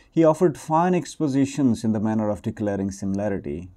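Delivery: story reading. Acted. Speaker reads a Sufi story from a book, emphatic read-aloud. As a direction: read the tale out to listeners, firmly.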